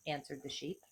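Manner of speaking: lively storybook read with voiced bits; reading to children. A narrator's reading. Teacher reading a fable aloud to second graders.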